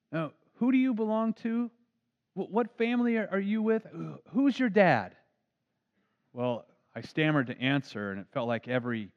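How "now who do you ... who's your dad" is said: probing preacher. Retold or imitated. Preacher questions a boy.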